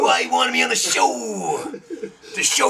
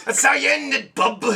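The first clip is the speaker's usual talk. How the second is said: Wolverine voice; 5 semitones higher than usual. Pretend. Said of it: "That's gonna be my Wolverine voice".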